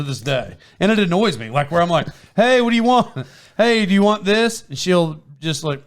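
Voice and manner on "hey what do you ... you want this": put-on higher, insistent questions to a child; imitating himself coaxing a child; retold prodding. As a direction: prod a silent kid for an answer.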